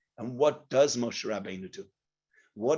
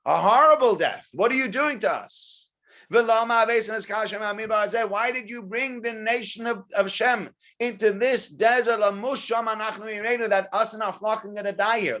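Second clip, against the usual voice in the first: complaining rant; 7 semitones higher than usual. Acted. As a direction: whine like angry wanderers in the desert. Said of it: "Sounds like a bit of a rant".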